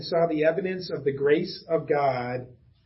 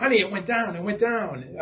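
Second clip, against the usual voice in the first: excited update; 4 semitones higher than usual. Retold or imitated. Husband excitedly telling his wife the covid cases rose, eager higher voice. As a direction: blurt the numbers out like big news. Excitedly reporting numbers again.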